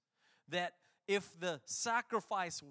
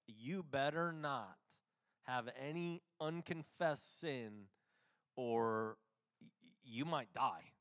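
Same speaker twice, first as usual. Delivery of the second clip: stern guilt-trip warning; 6 semitones lower than usual. Retold or imitated. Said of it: "it was like a heavy guilt trip".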